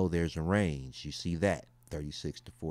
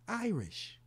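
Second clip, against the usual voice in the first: amused disbelief; 14 semitones higher, 4 dB quieter than usual. Real, not acted. Repeating Irish result.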